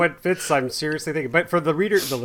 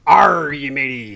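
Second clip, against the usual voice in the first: pirate voice; slower than usual. Acted. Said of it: "I am not doing my pirate voice".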